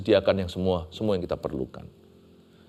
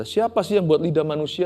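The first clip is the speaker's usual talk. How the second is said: gentle God; 6 semitones higher than usual. Acted. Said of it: "Tuhan nggak ngamuk, Tuhan nggak marah".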